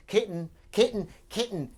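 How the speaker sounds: high, loud sing-song "Kitten, kitten"; thrilled kitten spotting on the fence; excited kitten call. Real, not acted.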